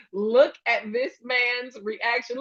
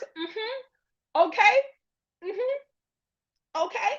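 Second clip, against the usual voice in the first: mock fake agreement; 10 semitones higher, much slower than usual. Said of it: "Don't believe".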